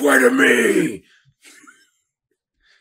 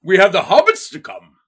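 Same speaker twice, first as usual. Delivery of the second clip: failed elf voice; 5 dB louder than usual. Retold or imitated. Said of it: "instead Gandalf came out".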